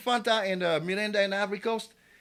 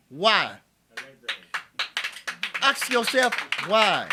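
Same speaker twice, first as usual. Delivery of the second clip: loud challenge; 8 dB louder, much slower than usual. Real, not acted. Rhetorical challenge to the audience.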